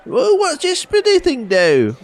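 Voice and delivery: put-on high slow creaky old-timer asking about the cart; grumpy old locals. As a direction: play a fussy old villager. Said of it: "old people that are going".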